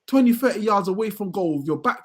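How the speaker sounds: high, loud frustrated yell at the player; mock stand shout. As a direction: bark it at him like a fan on the terrace. Yelling at striker from stands.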